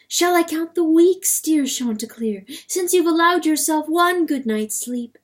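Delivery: high, loud reproachful question; indignant. A narrator's reading. Hen quarrels with rooster.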